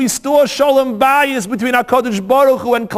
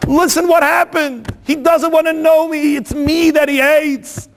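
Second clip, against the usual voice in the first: tearful pleading; 3 semitones higher than usual. Acted. Broken wife begging the Rav for help, mild tearful plea. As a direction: ask in desperation, lightly acted as if near tears. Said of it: "she's crying".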